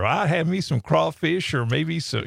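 lightly drawled Southern dog voice; a hint of a Southern accent. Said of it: "she answers in a Southern accent".

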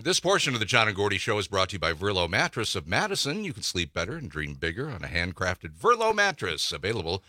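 smooth radio sponsor read. Acted. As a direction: read the sponsor credit, lifting the web address at the end. Reads the sponsor message.

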